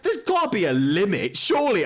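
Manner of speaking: high-pitched, pleading disbelief; mock exasperation. Player retelling a fifth ambush, exasperated and high. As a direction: plead upward in hammed-up despair. Acting own exasperation at returning orc.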